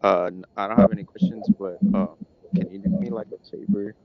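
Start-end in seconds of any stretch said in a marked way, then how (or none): 2.5-4.0 speaking up. Real, not acted. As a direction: raise the voice for a bad line. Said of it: "can you speak up a little bit".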